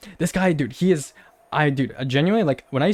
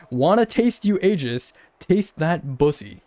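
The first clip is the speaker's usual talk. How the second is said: mocking; slower than usual. Mocking troll's creepy message.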